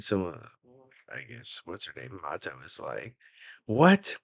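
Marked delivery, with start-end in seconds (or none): 3.7-4.2 sharp, much higher startled yelp; startled what. Acted. Mato startled by the insult, high yelp. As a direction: Mato jumps at the sudden insult.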